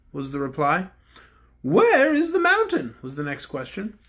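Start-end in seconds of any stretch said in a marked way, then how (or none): 1.6-2.9 a higher, grand royal voice; the Bear King addresses the cook; kindly Bear King. Acted. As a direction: speak as a gentle storybook king. King asks.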